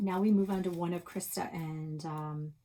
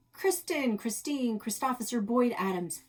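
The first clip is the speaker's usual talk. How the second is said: cheeky name list; 5 semitones higher, 4 dB louder than usual. Acted. Krista reels off fake names.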